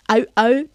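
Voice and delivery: "Au, au" like a barking dog; playful bark demo. Shown as a demonstration. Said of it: "dog barking".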